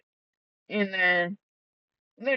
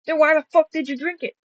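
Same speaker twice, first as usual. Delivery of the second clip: high, loud, fast disbelief; exasperated outburst; 10 semitones higher, 7 dB louder, faster than usual. Retold or imitated. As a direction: demand it in total disbelief. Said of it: "I'm like".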